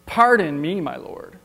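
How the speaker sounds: sassing God, polite words with an edge; a cheeky reply to God; sassy Gideon. Acted. Gideon sassing God after being sent, sarcastic. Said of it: "now he's sassing God".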